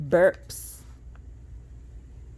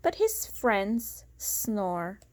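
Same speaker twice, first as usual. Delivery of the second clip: lilting storybook read-aloud; sing-song rhyming narration; reading to children; slower than usual. A narrator's reading. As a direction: read it like a bedtime picture book. Reading picture book aloud.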